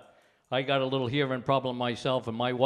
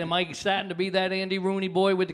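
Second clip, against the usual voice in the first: louder, dismayed inner voice; mock dismay; 5 semitones higher, 9 dB louder than usual. Customer recalling the hairdresser, loud mock dismay. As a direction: play the shocked customer catching his own age. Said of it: "And I was like".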